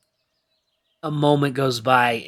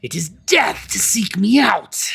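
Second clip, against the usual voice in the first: ghostly whisper; 9 semitones higher, 6 dB louder than usual. Acted. Banshee threatens.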